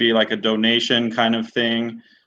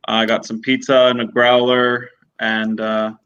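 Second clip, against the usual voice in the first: eating while talking; wolfing down food. Real, not acted. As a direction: talk through a mouthful. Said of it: "Sorry, guys, I'm starving".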